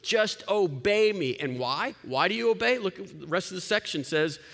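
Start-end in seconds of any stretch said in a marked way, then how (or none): 0.0-1.3 barking orders. Retold or imitated. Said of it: "King Jesus barking out orders".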